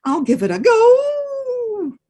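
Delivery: high, slow odd wolf voice; slow grudging wolf; reluctant wolf. Acted. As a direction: agree slowly, grudgingly. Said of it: "Wolf said".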